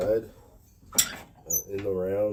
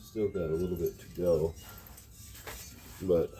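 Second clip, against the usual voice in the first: inside a helmet. Real, not acted. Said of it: "visor's fogging out".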